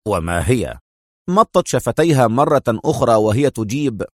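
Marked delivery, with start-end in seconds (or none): 0.1-0.8 low male question with a touch of worry; deep, mildly anxious query; worried. A narrator's reading. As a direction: ask with understated concern. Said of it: "يسأل في قلق".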